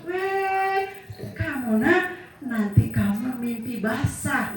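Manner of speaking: high, singsong taunt; teasing sister. Retold or imitated. Sister teasing her little brother back, in a high singsong taunt. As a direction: tease the brother, starting high.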